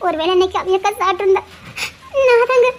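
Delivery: tearful, breaking voice; wife crying in fear. Acted. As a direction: choke out the words through tears. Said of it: "அழாத".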